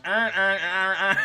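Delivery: loud, high mock Baltimore "Arr, arr" while laughing; Baltimore accent. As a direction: imitate the Baltimore guy mangling "Arr" into a bark. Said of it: "it came out as".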